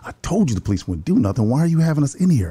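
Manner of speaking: mildly indignant, rising on the challenge; retold disgust. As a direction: imitate a disgusted mother's complaint. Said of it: "like, of disgust".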